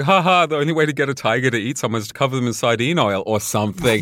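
giggly mock-breezy quote; laughing while quoting. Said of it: "when she's like".

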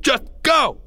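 high, urgent command; crying out. Acted. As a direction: shout to send him away. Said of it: "Greg cried".

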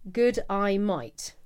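slow, spelled-out Aussie greeting; Aussie accent hack. Shown as a demonstration. Host demonstrates a listener's hack, slow Aussie accent. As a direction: sound out an Aussie "g'day mate" slowly. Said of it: "From an Aussie accent, just say".

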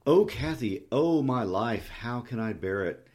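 despairing lover's lament, loud at first; undisguised despair. Acted. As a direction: cry out in open despair. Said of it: "a tone that did not seek to disguise his despair".

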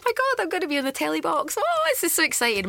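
high, thrilled squeal of excitement; giddy excited retelling; excited gushing. Retold or imitated. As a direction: gush like a kid about to be on telly. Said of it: "I was all excited, going".

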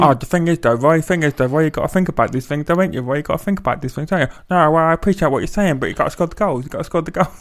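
put-on sly wheedling wide-boy banter; Paul Ince. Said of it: "conversation between Roy Hodgson and Paul Ince".

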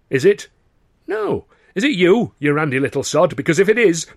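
loud, high accusation; accusing. Acted. Carno angrily accuses Dando, loud and high. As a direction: jab the question at him.

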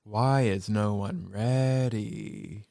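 a hint of icy calm, slow and level; calm monotone. Miranda impatient with staff, slow icy monotone. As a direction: say it slowly and flatly, no shouting.

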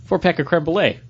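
lightly acted pleased discovery; pleased store find. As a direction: quote yourself happily spotting a find. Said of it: "and I'm like".

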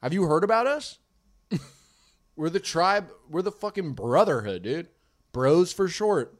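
put-on light Moroccan bro accent; playful Moroccan tribe voice. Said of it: "Is that your Moroccan accent?".

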